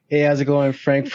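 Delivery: toned-down, steady greeting. Retold or imitated. Frank reminds himself to greet staff in a normal manly voice. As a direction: keep it level and manly. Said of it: "check myself and be like".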